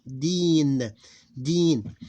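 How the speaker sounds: deen as one long beat ending on n; one closed syllable. Shown as a demonstration. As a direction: draw out deen, no vowel after n. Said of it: "one closed syllable".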